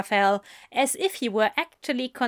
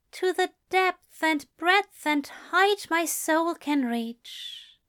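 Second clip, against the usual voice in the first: higher angel voice, reciting; reciting poem; 8 semitones higher, slower than usual. A narrator's reading. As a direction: lift the lines like a vow.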